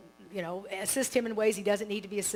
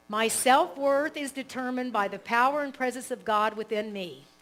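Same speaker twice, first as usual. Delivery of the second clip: affirmation read; 5 dB louder than usual. Shown as a demonstration. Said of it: "So I'll say it".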